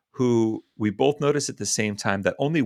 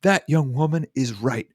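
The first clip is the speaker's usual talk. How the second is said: raised, emphatic rebuke; very loud; 5 semitones higher, 4 dB louder than usual. Retold or imitated. Old man backing the young woman, loud and firm. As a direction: imitate an old man loudly laying down a verdict. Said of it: "like, very loudly".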